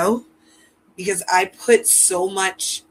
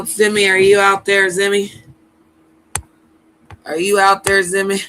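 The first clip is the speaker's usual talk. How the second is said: calling from far away; 2 semitones higher, 4 dB louder than usual. Real, not acted. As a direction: call out to someone out of sight. Calling for Zimmy out loud.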